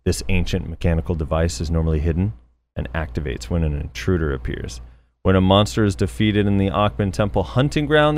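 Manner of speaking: lightly posh British RP read; RP accent. Pretend. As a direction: read it like a BBC announcer in RP. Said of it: "Gotta do this in the R P voice".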